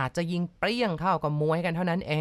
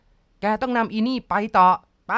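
louder, slow, threatening command; menacing order; 4 semitones higher, 7 dB louder, slower than usual. Acted. Armed husband orders the driver to drive on, menacing. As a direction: force him with each word.

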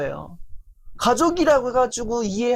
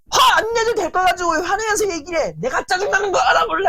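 angry quarrel; 9 semitones higher, faster than usual. Retold or imitated. Wife yelling at irritated husband, angry quarrel. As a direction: hurl it at the spouse in anger.

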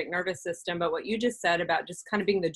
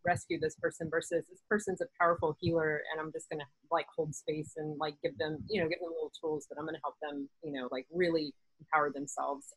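calm; 5 dB quieter than usual. Retold or imitated. Calm healer mindset voiced.

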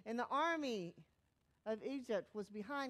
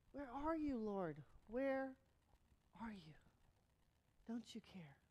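forlorn plea; 2 semitones lower, 5 dB quieter than usual. Acted. Believer to God as life falls apart, forlorn plea.

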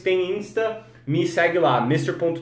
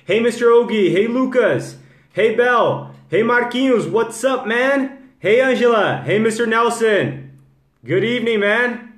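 high, loud call-out to each viewer; hearty greeting; 5 semitones higher, 4 dB louder than usual. Real, not acted. Host welcomes live viewers by name, hearty greeting. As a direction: greet them by name, pitched well up.

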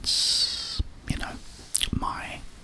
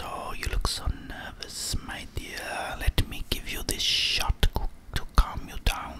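put-on whispered German accent that slips toward Russian; a German doctor soothing a patient, whispered; 4 dB quieter than usual. Game doctor offering a nervous player a shot, whispered German accent. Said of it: "It's German doctor".

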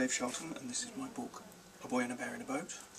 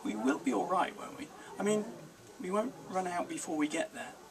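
put-on anxious boy; 6 semitones higher than usual. A narrator's reading. Boy voiced in story.

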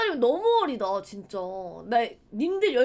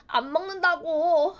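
mock drawn-out refusal; 5 semitones higher, 3 dB louder, slower than usual. 엄마에게 다시 거부.

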